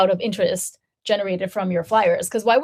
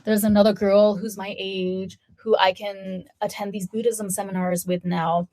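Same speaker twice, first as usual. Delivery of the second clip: fawning. Retold or imitated. Woman fawning over someone her own age, gushing. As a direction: imitate an overexcited woman fawning over a stranger. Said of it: "fawning over me and saying that".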